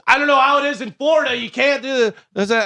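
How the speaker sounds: high, fast mocking of a scolding worker; lightly hammed-up gas station worker; mocking the gas guy. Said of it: "And he goes".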